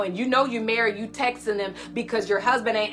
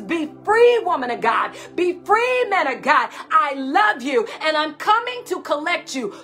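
ringing, lifted call to be free; voice of God; 3 semitones higher than usual. Acted. Preacher voicing God calling his people free. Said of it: "And God says".

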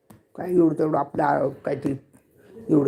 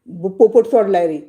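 calling out; 4 semitones higher, 6 dB louder than usual. Real, not acted. Calls out that parrot is loose.

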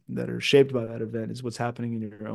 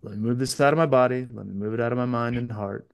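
calming self-talk. Retold or imitated. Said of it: "be like".

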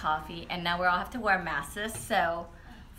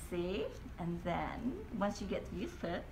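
sipping straw under mask; muffled by cloth mask; through a face mask; 8 dB quieter than usual. Real, not acted.

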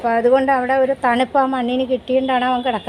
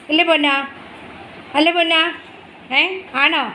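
cooing at pet; 5 semitones higher than usual. Real, not acted. Cooing to the dog.

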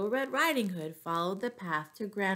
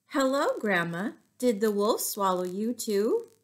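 put-on girl's voice; 3 semitones higher, 4 dB louder than usual. Girl greets grandma inside belly.

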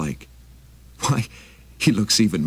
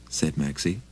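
plain reading voice

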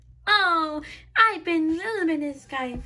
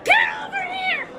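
much higher toy voice calling out; squeaky call; 3 dB louder than usual. Acted. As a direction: yell for a friend in a tiny toy voice. Toy character calling a friend.

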